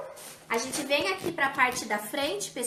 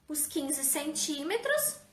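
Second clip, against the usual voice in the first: talking around pins held in lips; pins in mouth; slower than usual. Real, not acted. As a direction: speak with pins between your lips. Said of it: "alfinete na boca".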